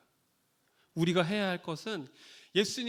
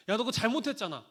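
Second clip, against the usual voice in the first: scolding; 3 semitones higher, 5 dB louder than usual. Retold or imitated. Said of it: "라고 이야기해도".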